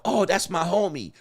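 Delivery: ordinary delivery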